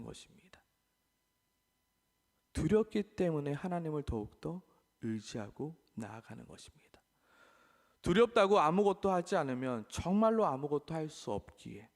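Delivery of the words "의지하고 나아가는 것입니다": hushed, softer closing words; whisper. Real, not acted. Pastor telling the congregation, whispered. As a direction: drop to a whisper.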